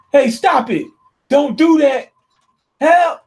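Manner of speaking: high, loud panicked begging; frantic cry for help. Retold or imitated. Villain cries out before his head is blown off, panicked. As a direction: scream for help as she fires.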